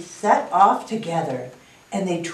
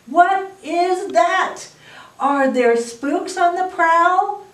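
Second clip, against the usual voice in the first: high, wondering bear voice with questioning lifts; muttering worry; 10 semitones higher, 3 dB louder than usual. A narrator's reading. Teacher reading a storybook bear aloud, high anxious questions. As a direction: voice a worried bear, pitched high and louder than a mutter. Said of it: "and the bear mutters".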